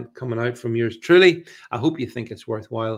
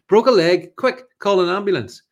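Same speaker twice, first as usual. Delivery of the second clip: higher, louder hammed-up panic; mock alarm; 7 semitones higher, 7 dB louder than usual. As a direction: fake emergency, tongue in cheek. Mock alarm at lander news.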